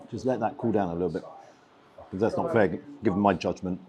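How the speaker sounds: talking round hot food; mouth full of hot food. Real, not acted. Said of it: "my mouth is on fire".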